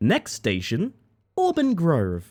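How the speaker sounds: slow, swooping, sing-song train station announcer voice. Doing a next-station train announcement in Transperth announcer voice. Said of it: "A little bit of Transperth voice, how about that?".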